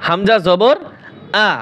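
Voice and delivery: আ said short, without drawing it out; short vowel. Shown as a demonstration. Teacher repeating hamza zabar for students, short unstretched আ. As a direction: keep the final আ brief, no stretching. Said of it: "টান দেওয়া যাবে না".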